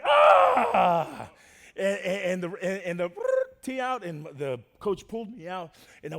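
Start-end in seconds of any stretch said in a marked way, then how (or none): 0.0-1.3 high, loud mock shriek of shock; hammed-up cry of horrified onlookers; imitated crowd scream. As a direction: shout a high, drawn-out "ah". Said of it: "everybody was like".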